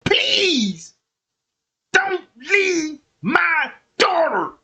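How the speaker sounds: high, slow, crying plea; hammed-up sobbing mother begging the police; mock tearful plea. Melodramatic pleading mock testimony.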